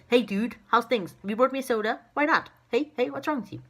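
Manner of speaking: high, loud pushy lion voice; a lion met in the bush, hassling you for a soda; cheeky lion. Pretend. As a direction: play a cocky lion demanding soda. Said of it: "He might say".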